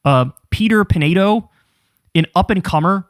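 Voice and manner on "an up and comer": mocking disbelief at "up-and-comer"; incredulous. Scoffing at being called new, incredulous. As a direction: repeat the phrase in disbelief. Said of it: "Bro, I've been doing this shit since twenty twelve".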